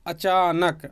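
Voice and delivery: अचानक broken up as अ, चा, नक; teacher sounding out अचानक by syllable; split into syllables. Shown as a demonstration. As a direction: draw out the चा in अचानक. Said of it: "अक्षर ऐसे बनेगा".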